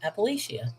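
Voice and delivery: Appalachia again with the long ay, a-pa-LAY-sha; her own pronunciation, said soft. Shown as a demonstration. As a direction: repeat Appalachia softly the way she says it. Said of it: "I would say".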